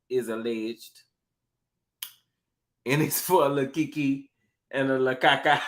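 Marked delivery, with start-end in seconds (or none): 2.8-5.6 lightly voiced impression of an aunt; a hint of a relative's catchphrase voice; Aunt Ann. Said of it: "And my Aunt Ann voice".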